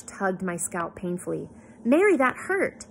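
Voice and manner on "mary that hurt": high, loud, drawn-out scolding; aggrieved, stretched-out protest; pained complaint. A narrator's reading. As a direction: complain as if your scalp smarts. Hair tugged painfully by brush.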